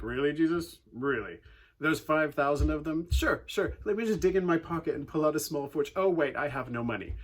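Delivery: dry mock disbelief, teasing; sarcastic. Disciples answering Jesus about feeding thousands, sarcastic. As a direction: roll your eyes at the request. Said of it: "they were being sarcastic".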